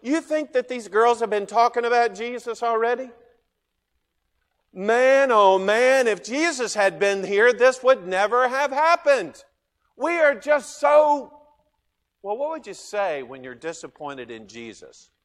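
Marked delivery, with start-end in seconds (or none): 4.7-11.3 anguished lament. Acted. Sisters lament Jesus's absence.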